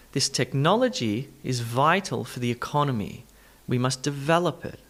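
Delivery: technology, vital, economy, develop: stressed syllables stand out; clear word stress. Shown as a demonstration. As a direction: lean on NOL, VI, CON, VEL in technology, vital, economy, develop. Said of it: "listen for my stress or emphasis".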